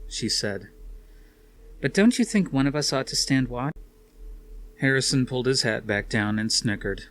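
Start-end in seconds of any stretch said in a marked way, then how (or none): 1.8-3.7 higher, louder woman's voice; Suzanne's voice. A narrator's reading. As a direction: voice Suzanne, pressing him.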